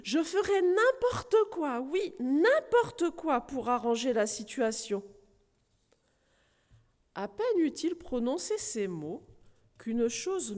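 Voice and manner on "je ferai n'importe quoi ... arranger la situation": a touch of a desperate plea; pleading cry. Acted. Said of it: "cria-t-il de toutes ses forces".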